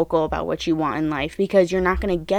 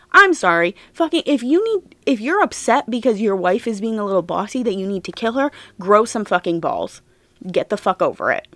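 angry rant. Real, not acted.

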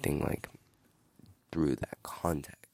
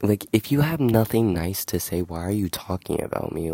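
loud, indignant call-out; heated rant; 7 dB louder than usual. Real, not acted. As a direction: tell them off, voice climbing. Venting at people who gossip.

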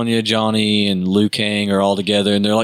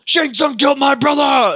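earnest hero line; 3 dB louder than usual. Retold or imitated. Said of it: "He's like".

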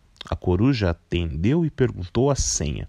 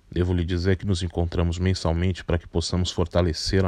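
lower, measured, patient voice; calm older man; 3 semitones lower than usual. Acted. Carpinteiro answers calmly.

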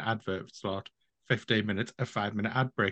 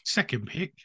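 put-on slow, raised London accent; 7 semitones higher, 3 dB louder than usual. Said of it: "why are you doing a London accent".

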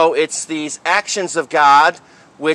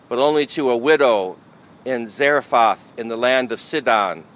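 gospel reading. Acted. Priest proclaims the gospel reading.

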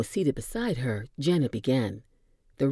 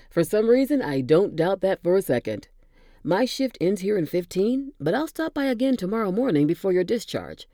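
higher and louder, playful quip; jovial orderly; 5 semitones higher, 4 dB louder than usual. Acted. Orderly bantering with his patient, playful and bright. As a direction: toss off the joke with a grin. Giles chatting to Janet.

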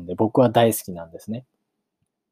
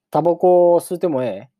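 higher-pitched Kansai-dialect question; 8 semitones higher, 4 dB louder than usual. Acted. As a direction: ask it as a casual Kansai-speaking character. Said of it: "関西弁も交えた". (関西弁でくだけた問いかけ)

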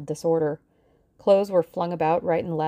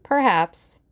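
smiling agreeably; 4 semitones higher, 5 dB louder than usual. Acted. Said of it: "smiling agreeably".

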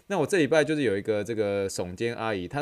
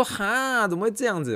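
much higher, surprised voice of the aunt; imitating the aunt; 12 semitones higher, 4 dB louder than usual. Trainer mimicking the shrugging aunt's confused reply, in a high voice. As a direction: play the puzzled client, pitched way up. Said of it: "美国白人这样".

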